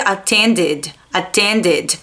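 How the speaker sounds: attended ending in a short, light "did". Shown as a demonstration. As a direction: close attended on a clipped D with no vowel after it. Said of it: "attend é o verbo attend".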